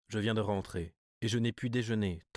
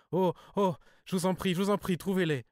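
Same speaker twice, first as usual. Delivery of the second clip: much higher and louder, pleading wail; anguished cry; 11 semitones higher, 5 dB louder than usual. Acted. Cousin begs the narrator for money, in an anguished high wail. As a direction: cry out in pain, begging him. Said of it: "Elle poussa une sorte de cri de souffrance".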